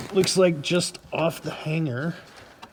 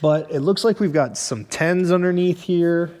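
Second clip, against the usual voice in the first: muffled; 3 semitones higher than usual. Real, not acted. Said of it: "sorry if I'm muffled".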